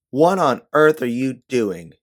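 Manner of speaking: loud, slow angry demand; angry outburst. A narrator's reading. Scolding her friend in public, loud and angry. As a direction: snap at her so the room goes silent. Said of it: "the anger in your voice".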